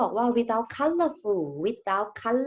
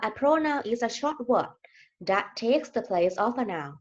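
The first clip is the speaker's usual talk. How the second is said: slow and deliberate, each word laid out for the class; slow definition reading; 2 semitones higher, much slower than usual. Shown as a demonstration. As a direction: read the definition slowly so students follow. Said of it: "เขาบอกว่า".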